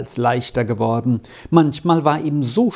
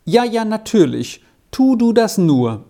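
readily agreeing, lifted higher pitch; willing, obliging; 6 semitones higher than usual. A narrator's reading. Herder lets the boy write his letter, readily obliging. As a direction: grant it readily in a raised, encouraging voice. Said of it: "antwortete er bereitwillig".

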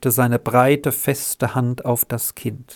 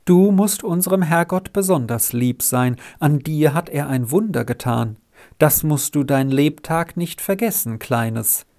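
reverent; 2 semitones higher than usual. Acted. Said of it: "sagte er andächtig".

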